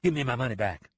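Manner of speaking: short, flat demand; a cheated boss demanding; blunt. Acted. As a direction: say it plain and hard. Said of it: "Price said bluntly".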